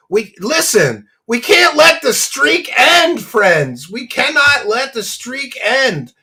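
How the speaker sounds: high, loud pleading pitch; hammed-up plea to keep the streak; mock begging streamer. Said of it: "I gotta adopt that strategy".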